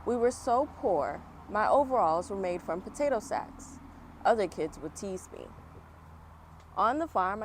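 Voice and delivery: lively first-person storybook reading; story narration. Acted. Reading Oprah's story aloud to children, storybook voice. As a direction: read it like story time for kids.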